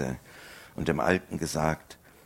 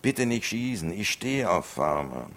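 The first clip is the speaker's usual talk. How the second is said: high, louder frantic begging; pleading; 6 semitones higher, 4 dB louder than usual. Acted. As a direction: beg him not to shoot. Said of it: "flehte um Erbarmen".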